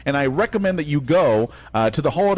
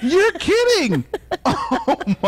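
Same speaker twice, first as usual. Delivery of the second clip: surprised; 14 semitones higher, slower than usual. Real, not acted. Reacting to hair story.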